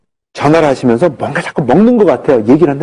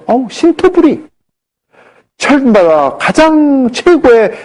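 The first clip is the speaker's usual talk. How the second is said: much higher, slow, proud patient voice; imitating proud patient; 11 semitones higher, much slower than usual. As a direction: ham up the smug patient bragging. Patient boasting about fruit.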